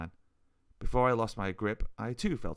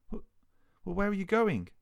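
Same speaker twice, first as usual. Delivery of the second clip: stuttering disbelief; 12 semitones higher, 4 dB louder than usual. A narrator's reading. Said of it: "I managed to stutter".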